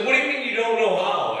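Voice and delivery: high, mock-incredulous question; incredulous wife. Wife questions husband who can't talk dirty, mock incredulous. Wife challenges his confession.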